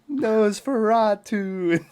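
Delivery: slow, high, drawn-out spooky name; Nosferatu. Retold or imitated. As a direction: stretch it out like a cartoon ghoul. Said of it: "through SpongeBob".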